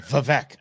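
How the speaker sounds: "Vivek" as vuh-VECK, second syllable clear; corrected pronunciation. Shown as a demonstration. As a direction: show how "Vivek" goes: vuh-VECK. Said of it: "you have to say it right".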